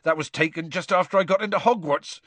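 a touch of croaky Hagrid, understated; lightly choked-up reminiscing. Acted.

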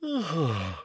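a long, showy, fake yawn. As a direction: yawn theatrically to seem tired. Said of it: "giving a long, fake yawn".

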